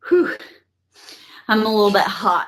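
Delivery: giggly. Real, not acted. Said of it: "piss twitters".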